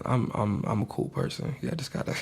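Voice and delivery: holding back laughter. Real, not acted. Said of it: "I couldn't even keep a straight face".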